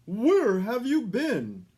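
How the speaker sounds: loud, slow, high demand; scolding Santa. A narrator's reading. Santa demanding where the reindeer was, loud and slow. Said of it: "asked Santa".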